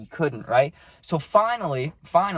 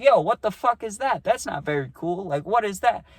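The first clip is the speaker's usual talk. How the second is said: angry protest; 4 semitones higher than usual. Retold or imitated.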